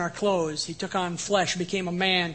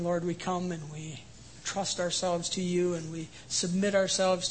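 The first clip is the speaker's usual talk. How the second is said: softer, reverent prayer voice; closing prayer; 3 dB quieter than usual. Acted. Pastor leading the congregation in prayer, soft and reverent. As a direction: pray quietly and humbly over the people.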